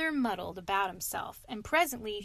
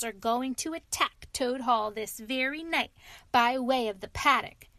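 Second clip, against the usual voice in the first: put-on louder, gossipy old washerwoman; boastful washerwoman; 4 dB louder than usual. Mole as washerwoman frightening the stoat sentries. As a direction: spook the guards with tall tales. Washerwoman spinning scary tale.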